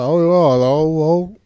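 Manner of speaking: loud, hammed-up "oh yeah, oh" mimicry; mock show character. Mocking the show's characters to a friend, loud and hammy. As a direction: ham up the show's dialogue loudly. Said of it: "they don't talk like this".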